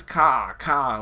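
"ka, ka" with the R dropped, Boston style; Bostonian pronunciation. Retold or imitated. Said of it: "like a Bostonian".

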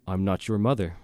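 mock-sinister low delivery. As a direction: imitate mom playing possessed, voice dropped a little. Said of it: "in a very low voice".

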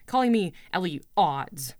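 heated, spitting the nickname out; angry rant. Acted. Girl repeating the insult in anger. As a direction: fling the words with outrage.

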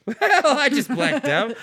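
high, slow, laughing mock announcement; high, slow laughing imitation. Imitating his friend's slow, high blackout announcement, laughing. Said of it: "make him go like this".

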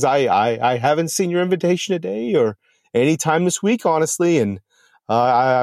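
a frightened mailman stammering excuses; nervous mail carrier. Acted. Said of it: "absolute fear".

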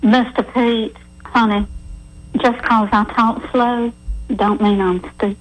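thick put-on Southern accent. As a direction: play up a hammy Southern accent. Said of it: "my very best dumb Southern accent".

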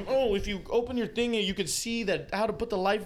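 high, chirpy cabin announcement; flight attendant voice. Retold or imitated. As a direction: mimic the safety speech.

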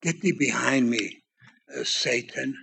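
harsh words, hushed. Retold or imitated. Jesus rebuking Peter, a low hushed warning. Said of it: "Jesus said these harsh words".

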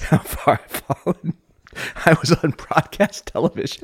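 huffy, put-upon pro; frustrated pro. Retold or imitated. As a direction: play the exasperated veteran host. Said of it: "You're just so frustrated".

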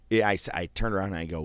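ordinary talk

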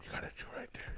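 ASMR whisper. Pretend. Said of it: "ASMR bit".

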